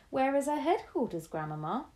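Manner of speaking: put-on a boy who can't wait to know; eager cry. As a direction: grandson crying out to grandma. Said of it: "I cried".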